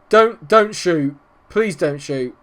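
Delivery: high, drawn-out, desperate begging; anxious pleading. Real, not acted. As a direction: plead with the screen. Begging the striker not to shoot.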